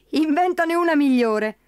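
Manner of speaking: slow taunting laugh through the words; amused scoff, slow. Acted. Pat mocking the leprechaun's trick, slow laughing taunt. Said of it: "rise scuotendo il leprecano".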